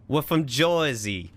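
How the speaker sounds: put-on slow, drawn-out Jersey accent. Streamer attempting a requested accent for viewers, Jersey accent. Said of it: "A Jersey accent".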